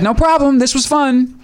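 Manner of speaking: very high-pitched acted reply; high put-on voice. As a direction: answer in a comically high voice.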